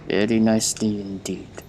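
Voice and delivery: lightly put-on Russian accent; a hint of a cultured Russian. Machinist approves of work at his monitor, light Russian accent. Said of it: "There's a hint of Russian accent".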